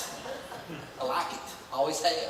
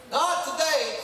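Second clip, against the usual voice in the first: defiant shout; 5 semitones higher, slower than usual. Retold or imitated. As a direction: shout it down, standing fast. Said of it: "you stand fast and say".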